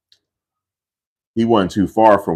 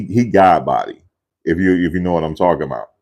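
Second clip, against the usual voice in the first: usual speaking voice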